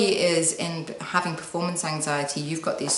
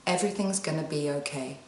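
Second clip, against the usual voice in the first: quiet; 3 semitones lower, 7 dB quieter than usual. Shown as a demonstration. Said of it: "So say it with me".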